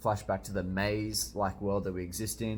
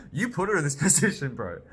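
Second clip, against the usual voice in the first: very high, laughing cartoon cat voice; squeaky cat voice; 6 dB louder than usual. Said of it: "the cat is like".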